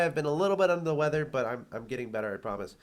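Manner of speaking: stuffy, nasal voice from a cold. Real, not acted. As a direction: talk through a blocked nose. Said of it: "excuse my nasally sounding voice".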